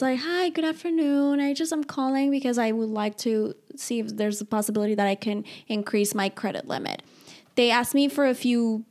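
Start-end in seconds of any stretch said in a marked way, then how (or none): 0.2-7.0 polite, bright phone greeting; customer service voice. Shown as a demonstration. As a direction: sound like a friendly caller on hold. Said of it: "I call in with my customer service voice".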